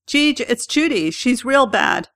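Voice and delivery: a high, strained plea, close to breaking; voice cracking. Retold or imitated. Husband telling the doctor his wife is dying, voice cracking. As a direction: let it crack on her name. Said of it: "His voice cracks".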